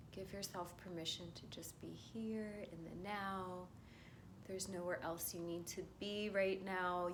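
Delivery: hushed, calming guidance; guided meditation. Acted. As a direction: reassure them gently as they settle.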